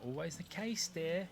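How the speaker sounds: high, prim scolding voice. Pretend. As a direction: talk down to the gadget primly. Talking to Alexa.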